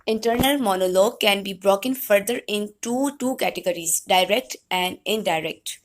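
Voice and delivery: slow, measured lecture read-out; reading notes aloud. Real, not acted. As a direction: read it out slowly to the class. Reads out English notes. (ٹھہر ٹھہر کر نوٹس پڑھتے ہوئے)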